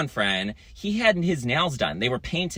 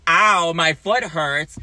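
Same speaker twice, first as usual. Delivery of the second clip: pained complaint; 3 semitones higher, 4 dB louder, much slower than usual. Retold or imitated. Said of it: "He literally said".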